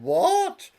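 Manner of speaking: very high, loud and laughing; comic high yelp; exasperated dad. Acted. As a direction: squeak it out in mock irritation. Father answers daughter, comic.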